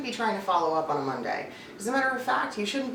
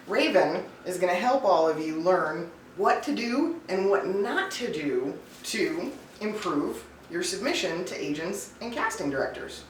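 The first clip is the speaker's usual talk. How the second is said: normal talking voice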